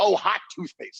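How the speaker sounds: very high, squeaky-clean cursing. Showing how a Bible camp supervisor curses: cursing like a Bible camp supervisor. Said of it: "curse like a ... Bible camp".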